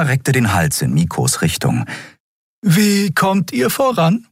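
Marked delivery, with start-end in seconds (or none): 2.6-4.3 high, airy voice for Xea, calm and explaining; Xea, hohe Stimme. Acted. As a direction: pitch it up high, thoughtful guide. Xea asks Miko. (hohe, ruhige Frauenstimme einer Figur)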